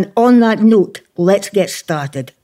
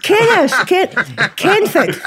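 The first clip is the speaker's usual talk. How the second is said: laughing fumble; 11 semitones higher, slower than usual. Real, not acted. Host fumbles the name laughing.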